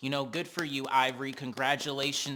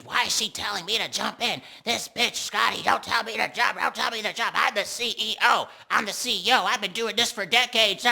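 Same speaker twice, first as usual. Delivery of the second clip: high, loud indignant ranting voice; mocking Natalie's rant; 7 semitones higher, 6 dB louder than usual. Recapper imitating Natalie outside, high, loud and indignant. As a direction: huff it out like an offended boss. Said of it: "Natalie outside proceeding to be like".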